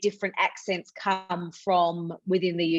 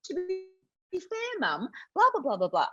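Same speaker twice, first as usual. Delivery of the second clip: imitating daughter; 10 semitones higher, 4 dB quieter than usual. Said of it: "my daughter, she's seven".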